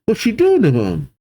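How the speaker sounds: high, bewildered alarm; alarmed calling out. Acted. Giants watching Brogy, high worried call. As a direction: call out the questions in acted worry. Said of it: "The giants call out".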